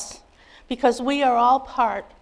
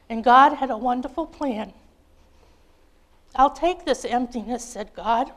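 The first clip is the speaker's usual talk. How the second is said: put-on lively children's storybook read-aloud. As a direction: read it like a picture book at bedtime, bright and expressive. Reads children's story to congregation.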